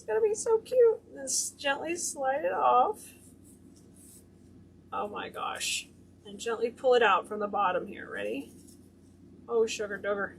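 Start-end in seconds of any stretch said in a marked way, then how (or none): 4.9-5.9 breathy whispered oh my gosh; whispered awe. Real, not acted. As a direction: gasp it under your breath. Reacting to the curled ribbon.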